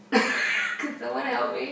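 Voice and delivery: slow, giggling call for help; laughing plea. Real, not acted. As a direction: laugh as you beg for rescue. Laughing while stuck for word.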